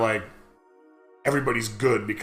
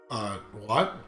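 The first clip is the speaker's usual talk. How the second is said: quiet, hesitant disbelief, retold; stunned small reply, pitched low; baffled; 6 semitones lower, 9 dB quieter than usual. Student refused notes by his teacher, retold baffled.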